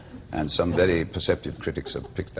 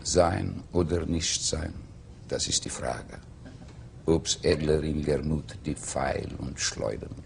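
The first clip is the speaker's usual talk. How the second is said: slow, measured Hamlet recited in German; slower than usual. Shown as a demonstration. Hamlet in German, recited slowly. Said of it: "How would it sound in German?".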